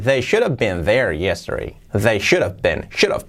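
"should have" run together as "shudav"; contracted. Shown as a demonstration. Teacher shows the common way, "should have" linked. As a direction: slide through "should have", dropping H. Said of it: "es muy común decirlo así".

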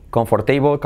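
comfortable said the Spanish way, kon-for-tei-bol; Spanish-style comfortable. Shown as a demonstration. Teacher contrasts student and native comfortable. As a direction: read comfortable as it is spelled. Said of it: "el nativo dice".

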